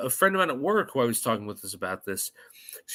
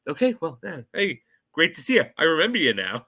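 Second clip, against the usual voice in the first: put-on Indian accent; 3 semitones higher than usual. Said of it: "he starts doing the Indian accent".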